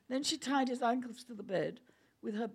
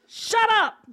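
higher, louder angry snap; sharp shout; 11 semitones higher, 15 dB louder than usual. Acted. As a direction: bark it at him. Judy snaps at Griffin.

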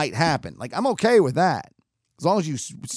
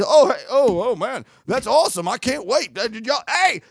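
higher-pitched, hammed-up thrill; overdramatic mock excitement; 6 semitones higher, 3 dB louder than usual. Mocking the expected reaction to the rumor, overdramatic. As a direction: play at being wowed by big news. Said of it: "over dramatic in this state".

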